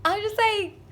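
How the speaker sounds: high, loud drawn-out wail; crying out. Retold or imitated. Telling viewers how she just cried, hammed-up wailing why. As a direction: wail it long and high, dramatizing despair. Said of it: "I just cried".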